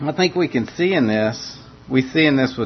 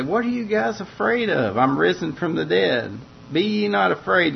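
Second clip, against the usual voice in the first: pitched well higher, mock scolding Jesus; imagined scolding; 4 semitones higher than usual. Imagined Jesus scolding his frightened disciples, mock stern and high. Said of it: "or some kind of scolding".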